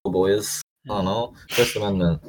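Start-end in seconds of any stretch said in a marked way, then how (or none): 0.0-0.6 high rowdy bro cheer; frat bro. Acted. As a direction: hype up the boys. Rowdy patriotic joking cheer.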